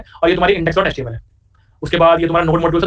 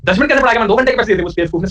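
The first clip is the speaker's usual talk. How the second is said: imitating an outraged student, pitch lifted at first; put-on grumbling complaint; mock indignation; 3 semitones higher than usual. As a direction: protest like a short-changed customer, only mildly angry. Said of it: "उसको ऐसे गुस्सा आ गया".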